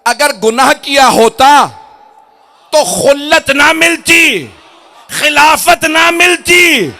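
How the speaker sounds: high, slow shouted sermon climax; thundering pulpit proclamation; full-force preaching. Acted. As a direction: build each phrase into a drawn-out roar.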